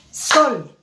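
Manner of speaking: "sol" as one isolated beat. Shown as a demonstration. Teacher demonstrates a one-syllable word, one beat of voice. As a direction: say "sol" in a single stroke. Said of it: "Solamente doy un golpe de voz".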